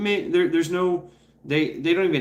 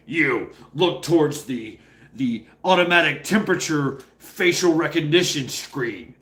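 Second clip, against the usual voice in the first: authoritative cop voice. Retold or imitated. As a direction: read it like a rulebook. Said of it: "it's very authoritative".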